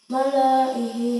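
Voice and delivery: Malaihi drawn out slowly, lam kept short; recited slowly. Shown as a demonstration. Teacher recites Malaihi for students, slow chant. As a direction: intone Malaihi slowly and clearly. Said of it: "lamnya dibaca pendek".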